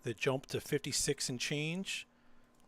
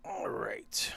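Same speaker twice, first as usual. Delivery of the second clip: whispered all right. Real, not acted. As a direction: breathe it out unvoiced. Whispering on the commentary mic.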